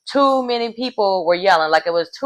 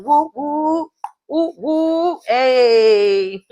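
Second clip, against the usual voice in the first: higher, whooping woos breaking into laughter; whooping cheer; 7 semitones higher, much slower than usual. Real, not acted. Vlogger cheers the team's win, laughing whoops. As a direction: whoop and laugh in pure joy.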